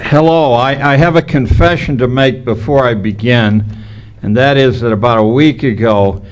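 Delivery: slight lisp from missing front teeth. Real, not acted. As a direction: talk through a gap in the teeth. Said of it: "So if I lisp through this thing".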